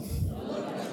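unvoiced soft repeat; whispered echo. Real, not acted. Congregation answering softly, whispered. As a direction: breathe the words back.

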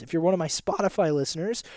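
a sudden squeaky crack at the phrase end; voice squeak. Real, not acted. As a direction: voice cracks upward on listeners. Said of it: "did you hear that squeak there?".

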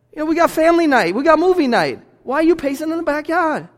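high-pitched acted parent pleading; baffled parent. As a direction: play a parent puzzled by their anxious kid. Parent reassuring, questioning pacing child.

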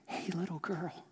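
put-on soft, gentle greeting to a little girl; tender. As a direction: say it softly, like calming a child. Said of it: "the tender way that she dealt with her".

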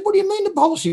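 high-pitched disbelief; surprised. Retold or imitated. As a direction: ask it high in confusion. Confused question.

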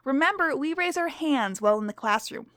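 lightly voiced stern schoolteacher; strict teacher. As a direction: read to the class as a stern teacher.

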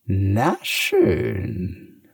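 a lightly purred na schön; purring. A narrator's reading. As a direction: purr it, giving in. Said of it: "schnurrt die Katze".

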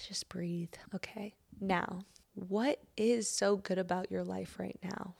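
unhurried self-help meditation read, often near a whisper; guided reflection. Acted. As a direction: gently lead the listener into gratitude. Leads a grateful breathing reflection.

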